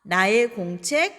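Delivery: slow, clear teacher drill; slow model reading. Shown as a demonstration. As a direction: say each pair slowly for students. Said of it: "바로 넣어서 말하겠습니다". (천천히 또박또박 시범)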